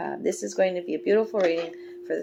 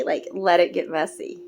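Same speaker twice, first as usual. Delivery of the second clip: louder, pushing the words out; emphatic; 5 dB louder than usual. Real, not acted. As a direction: urge them to let go. Repeated advice, first take louder.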